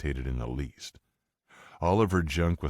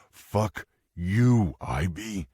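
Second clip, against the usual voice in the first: loud sudden angry burst; 5 semitones higher, 4 dB louder, much slower than usual. Acted. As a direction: spit it at her, louder. Mike confronts his ex.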